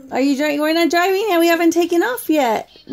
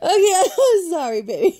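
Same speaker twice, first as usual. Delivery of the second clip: laughing apology. Real, not acted. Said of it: "I can't help but laugh".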